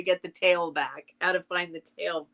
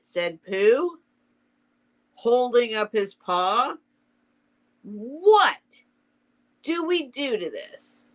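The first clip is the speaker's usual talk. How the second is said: lively storybook dialogue with swooping pitch; story read-aloud; 5 semitones higher, slower than usual. A narrator's reading. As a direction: read out the bickering characters, lightly voiced. Reads Owl and Pooh dialogue.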